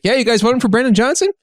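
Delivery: mock-friendly stranger's question. Stranger asking passersby about their vote, friendly. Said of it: "This guy seemed friendly".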